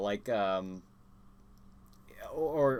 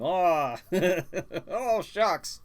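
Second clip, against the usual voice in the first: bashful aw shucks; 6 semitones higher, 4 dB louder, much slower than usual. Real, not acted. Flattered by a chat compliment.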